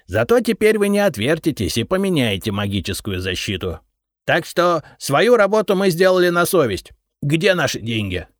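ликующий высокий голос кладовика; победно заявить; торжествующе. A narrator's reading. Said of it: "торжествующе заявил Репей". (торжествующий кладовик)

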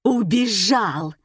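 mildly acted outraged bellow; narrator's bawling angry woman. A narrator's reading. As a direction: bawl it, stretching the words out. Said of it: "заорала бабища".

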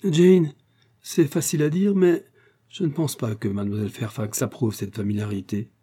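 a touch of irritation, sharp on Jane; Frank, annoyed at the familiarity, mildly displeased. Acted. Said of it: "dit d'un air mécontent". (mécontent, sans colère marquée)

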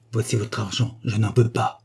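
short, clipped refusal; curt voice. Acted. Woman returning the banknotes to the man who left, curt voice. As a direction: throw the words down, brief and proud. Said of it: "d'une voix brève".

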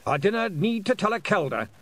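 put-on proud old piper refusing; stubborn old Scot. A narrator's reading. William scolding.

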